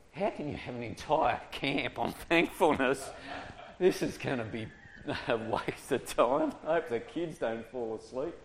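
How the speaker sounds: mock doubtful colleague, laughing a little; skeptical quote. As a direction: scoff at the idea of a thankfulness camp. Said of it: "They said".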